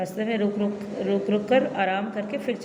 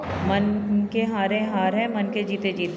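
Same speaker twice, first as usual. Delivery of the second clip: slow, deliberate proverb recitation; teacher reciting a proverb to the class, slow and deliberate; proverb recited slowly; slower than usual. Shown as a demonstration. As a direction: lay out मन के हारे हार है word by word, slowly. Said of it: "उसने एक मुहावरा बोला".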